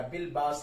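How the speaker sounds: बिल बास read with a short final i, "baasi"; genitive ending shown. Shown as a demonstration. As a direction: add a short i after the s of बास. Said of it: "स्वाद के नीचे यहाँ पर जेर आएगा". (बिल बास: स्वाद के नीचे ज़ेर, "बासि")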